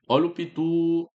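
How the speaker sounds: slow down and hit the tu of pitu; stress on pitu. Shown as a demonstration. Teacher showing students the strong syllable, slow stressed demo. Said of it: "É só você vender a palavra".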